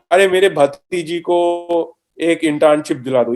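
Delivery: fast, pleading Hindi favor-asker; pleading relative. Retold or imitated. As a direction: beg like a pushy uncle. Mocking an unprofessional favor request.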